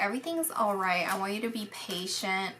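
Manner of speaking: soft, gentle reassurance; reassuring. Retold or imitated. Spirit reassuring the sitter, softly and gently. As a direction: ease her mind, softly. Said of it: "He's trying to reassure you".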